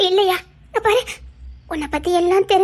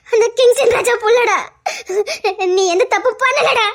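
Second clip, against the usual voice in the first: tearful reassurance; 3 semitones higher than usual. Acted. Mother reassures son through tears.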